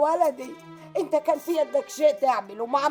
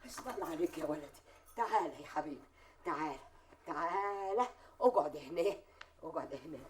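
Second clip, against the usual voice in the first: tender soothing; 5 semitones lower than usual. Acted. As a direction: hush him gently like a hurt child. Mother soothing her grieving son.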